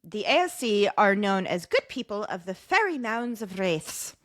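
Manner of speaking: reading in a put-on Irish accent. Host reads Yeats lore to impressed co-host, Irish accent. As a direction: read it with an Irish lilt and rolled r. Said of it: "blowing me away with your Irish accent".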